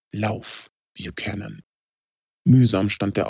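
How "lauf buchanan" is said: soft, distant urging voice; a faint voice in his head urging him to run; soft urging from far away. Acted.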